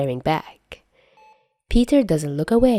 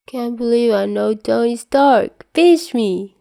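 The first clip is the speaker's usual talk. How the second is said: put-on higher-pitched, giddy kid voice; starstruck kid; 6 semitones higher, 4 dB louder than usual. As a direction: gush like a dazed fan. Loopy Peter starstruck by Tony.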